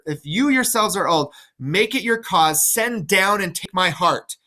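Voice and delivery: lightly voiced old king pleading to the heavens; reading Lear. Lear calling on the heavens, lightly acted plea. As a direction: read it as an old man begging the gods.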